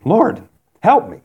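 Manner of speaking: crying out. Acted. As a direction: call for help in a mild cry. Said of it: "So she's crying out".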